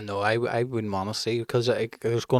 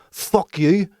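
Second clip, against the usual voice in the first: a sudden higher mock snap; mock angry curse; 6 semitones higher, 3 dB louder than usual. Dad showing his son an angry curse, mock snap. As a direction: spit it out like you finally lost it.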